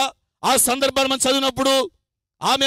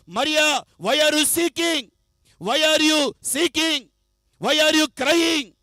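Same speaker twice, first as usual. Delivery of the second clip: drawn-out question; much slower than usual. Acted. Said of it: "మరియ అంటున్నాడు".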